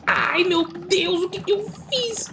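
very high, drawn-out cry of dismay; horrified wail. Real, not acted. Gamer who jumped off by mistake, high horrified wail. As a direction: wail slowly at your own blunder. Gamer just blundered in game.

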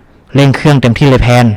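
mildly urgent, drawn-out command; called-out order. A narrator's reading. Sister ordering her brother to speed up the boat, mildly urgent call. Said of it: "หล่อนร้องสั่งน้องชาย".

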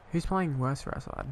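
normal talking voice

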